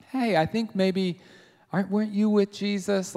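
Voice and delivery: lightly voiced friendly question; mildly curious, friendly approach; friendly, inquisitive. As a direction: ask it tentatively, as a harmless passing comment. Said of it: "like a friendly comment".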